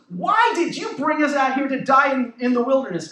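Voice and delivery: mildly sarcastic complaint to a leader; a touch of indignant sarcasm. Retold or imitated. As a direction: voice the people's sarcastic protest. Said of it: "I love this little bit of sarcasm".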